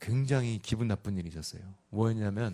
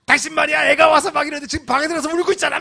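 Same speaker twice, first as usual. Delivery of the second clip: much higher, louder, fast nagging; scolding wife; 10 dB louder, faster than usual. Retold or imitated. Wife scolding her husband for upsetting their son, high and loud. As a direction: tear into your husband.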